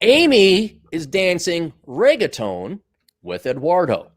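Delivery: Eduardo flat and slow, American style; slow American read of Eduardo; American accent. Shown as a demonstration. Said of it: "this is how a real American says it".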